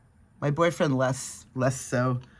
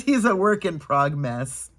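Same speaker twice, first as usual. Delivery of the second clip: laughing quote. Retold or imitated. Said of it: "at one point he says".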